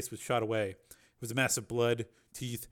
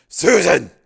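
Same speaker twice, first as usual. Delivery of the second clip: loud, high shout of her name; horrified cry; 7 semitones higher, 17 dB louder than usual. Acted. Finds her lying in blood.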